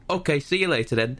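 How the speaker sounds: high sing-song mock farewell; game character's sign-off. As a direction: chirp a scripted goodbye. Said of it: "And you go".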